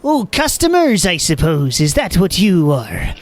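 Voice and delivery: high, gruff gnome woman caught off guard; startled shopkeeper, not yet polite; grumpy gnome shopkeeper. Acted. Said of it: "that's not really my customer service voice".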